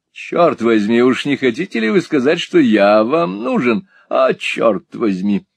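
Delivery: sassy drag queen. Acted. Mantalini greeting Ralph affectedly.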